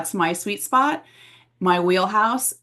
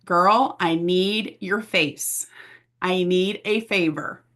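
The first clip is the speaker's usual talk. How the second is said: pleading bestie; slower than usual. Pretend. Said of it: "your bestie saying".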